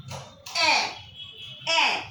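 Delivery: "a" as a short open "eh"; French pronunciation of est. Shown as a demonstration. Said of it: "The pronunciation will be".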